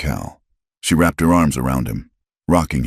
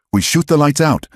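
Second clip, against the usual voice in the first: higher, louder, hard command; hard as iron; 12 semitones higher, 4 dB louder than usual. A narrator's reading. Eliza taking command, iron-hard and loud. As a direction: state it with iron resolve. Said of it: "her voice hard as iron".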